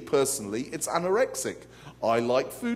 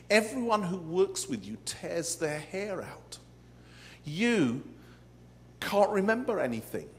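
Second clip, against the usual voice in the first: Satan's sly whisper; 3 semitones higher than usual. Retold or imitated. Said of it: "he whispers in my ear".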